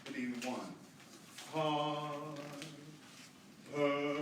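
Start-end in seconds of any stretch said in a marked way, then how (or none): 1.5-4.2 Har, per hit at the front, then tone pulled way back; accented attack, then back off. Shown as a demonstration. Choir director demonstrating accents, each hit at the front then pulled back. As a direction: punch the start of Har and per, then let each fade. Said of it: "So those accents are gonna be done like this".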